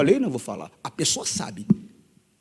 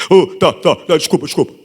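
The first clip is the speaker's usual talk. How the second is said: retold hasty apology; 4 dB louder than usual. Drunk man hastily apologises when confronted.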